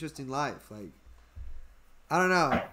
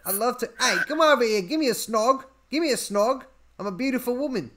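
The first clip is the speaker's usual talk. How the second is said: higher-pitched mock Scouse come-on; Liverpool accent; 4 semitones higher, faster than usual. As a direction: flirt in an attempted Liverpool accent. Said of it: "she's a Liverpoolian".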